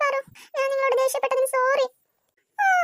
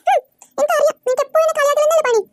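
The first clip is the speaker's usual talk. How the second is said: louder, fast, huffy accusation; angry huff; 2 semitones higher, 5 dB louder than usual. Acted. The girl angrily accuses the boy of teasing her, louder and fast. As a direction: snap it out, offended.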